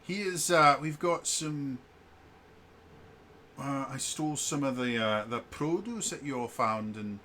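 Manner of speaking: lightly voiced Cockney cook; Thomas, Cockney accent. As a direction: offer food in a casual Cockney. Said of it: "it's a bloody Cockney accent".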